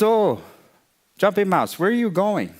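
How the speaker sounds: high-pitched, curious little mouse; fat mouse greeting. A narrator's reading. Fat mouse meets Jumping Mouse, high curious greeting. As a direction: lift the voice high with friendly interest.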